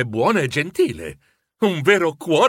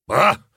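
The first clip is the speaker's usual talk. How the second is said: annoyed grumble; 4 dB louder than usual. Acted. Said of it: "bofonchiò lui, seccato".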